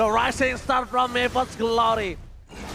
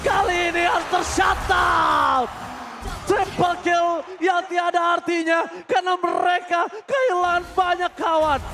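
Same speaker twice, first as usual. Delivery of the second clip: fighting game announcer; 5 semitones higher than usual. Real, not acted. Hyped caster calling a triple kill.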